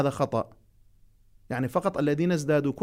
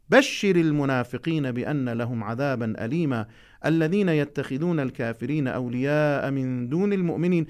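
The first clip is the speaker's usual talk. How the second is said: Quran recitation. Acted. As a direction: recite each word deliberately for the class. Recites the next verses.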